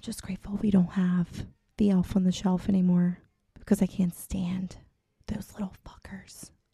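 hushed whispering. Whispering to the audience because the kids are home, whispering. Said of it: "I have to whisper this because".

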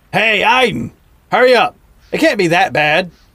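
boisterous, booming call. Reading a story, a crocodile calls back to his friend: boisterous booming call. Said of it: "in a boisterous tone".

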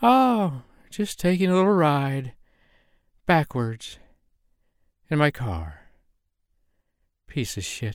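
woozy, out-of-it tone. A narrator reads Vanessa answering Harlan from her car in a loopy voice. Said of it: "You answer in a loopy voice".

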